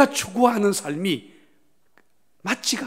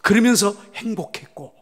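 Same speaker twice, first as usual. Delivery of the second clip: rising higher and louder with each phrase; building preaching; 6 semitones higher, 7 dB louder than usual. Real, not acted. Pastor lists the forebears' joys, building to a climax. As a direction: build it up step by step.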